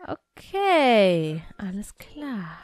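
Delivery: unvoiced, slow resigned whisper; whispered aside. Real, not acted. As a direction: breathe the words out slowly, giving up. (resigniert geflüstert)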